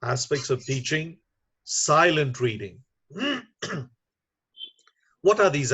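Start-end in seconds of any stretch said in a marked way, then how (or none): 0.0-2.8 SILENT set apart after a short pause and stressed; emphatic "silent reading", held back by a beat. Real, not acted. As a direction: land firmly on "silent", falling through "reading". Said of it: "let me emphasize that".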